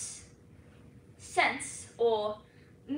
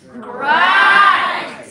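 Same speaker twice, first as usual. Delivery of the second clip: loud, drawn-out Scottish GRIND; Scottish dialect; 6 semitones higher, 15 dB louder than usual. Shown as a demonstration. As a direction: belt GRIND in broad Scots, higher. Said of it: "Try that with me now".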